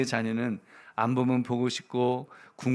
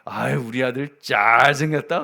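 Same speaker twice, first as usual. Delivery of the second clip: doting on son; 6 dB louder than usual. Retold or imitated. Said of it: "아침마다 보면 그럽니다".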